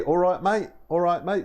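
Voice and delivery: casual Cockney greeting; Cockney accent. Shown as a demonstration. Showing a learner the catchphrase, Cockney accent. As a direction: put on a light Cockney accent.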